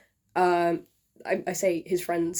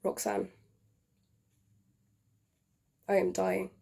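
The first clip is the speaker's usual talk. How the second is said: tragic love letter. Acted. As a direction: read it like a dying man's farewell. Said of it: "performed by yours truly".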